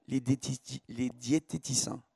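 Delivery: diététiciens with a slushy sh for s; lisp. Real, not acted. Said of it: "j'avais un cheveu sur la langue".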